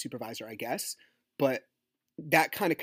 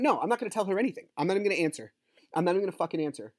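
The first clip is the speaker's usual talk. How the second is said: higher, worked-up refusal; defiant refusal; 5 semitones higher, much faster than usual. Real, not acted. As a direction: refuse outright, getting heated. Refusing to answer her message.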